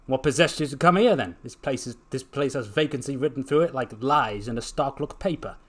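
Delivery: nosy shopkeeper, lightly Scottish; lightly voiced Scottish chopper; Scottish-sounding chopper. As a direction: grumble about the place, starting loud.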